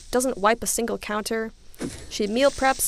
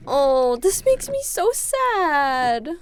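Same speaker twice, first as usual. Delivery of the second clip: much higher, very slow sad sigh of a line; genuinely sad; 4 semitones higher, 5 dB louder, much slower than usual. Real, not acted. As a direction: let the sadness stretch out the words. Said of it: "I'm sad".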